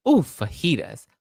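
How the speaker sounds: hammed-up wacky college girl; imitating wacky friend. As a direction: croon it like a quirky college friend. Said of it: "She'd be like".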